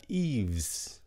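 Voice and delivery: Yves said as one syllable, like "eevs"; wymowa Yves. Shown as a demonstration. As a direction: say "Yves" slowly as a model, with a final s. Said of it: "Chữ đầu tiên của cái này".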